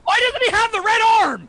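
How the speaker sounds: high, loud outraged question. Real, not acted. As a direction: fire off the question in disbelief. Outraged question about the droid.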